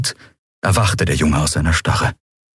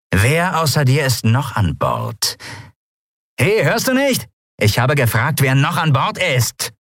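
threatening pirate woman, lightly voiced; pirate threatening to burn a hole in his skull; menacing pirate; 7 semitones higher than usual. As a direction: threaten him, slow and mean. Pirate interrogates.

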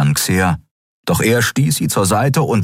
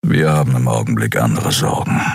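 low gruff grumble; grumbled; 7 semitones lower than usual. A narrator's reading. Kero brushes off Xea's question, low grumble. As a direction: growl it out low, shutting her down. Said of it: "brummte er".

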